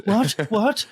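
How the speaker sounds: high, loud posh what; posh bafflement. Retold or imitated. Posh hostess not understanding the northern guest, high and haughty. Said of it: "And she was like".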